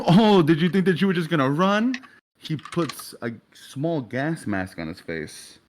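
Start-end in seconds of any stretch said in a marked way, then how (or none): 0.1-1.9 high, taunting question; mocking taunt. Auburn attacking Sebastian as he falls back, mocking taunt. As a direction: sneer it as a high mock question.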